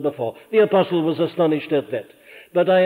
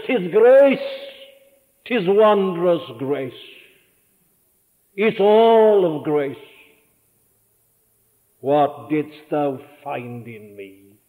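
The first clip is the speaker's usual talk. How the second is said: awed prayer; 3 semitones lower, slower than usual. Retold or imitated. Kneeling Christian's awed prayer.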